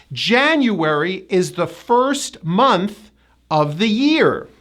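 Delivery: slow example, January as JAN-you-wer-ee; spaced phrases, four-syllable January; hidden Y and W. Shown as a demonstration. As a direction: stress JAN in January, measured pace. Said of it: "a hidden Y and a hidden W".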